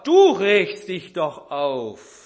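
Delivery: retold husband roaring at his wife; father bellowing. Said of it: "Da brüllt der Vater".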